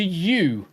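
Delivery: U said as YOO; emphatic YOO for U; correct vowel. Shown as a demonstration. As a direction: give U a clear y sound, YOO. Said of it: "It's not oo".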